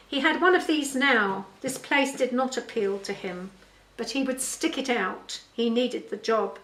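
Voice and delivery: measured storytelling read; story narration. A narrator's reading. Author reads her father's story to listeners, story narration. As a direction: read the tale aloud clearly.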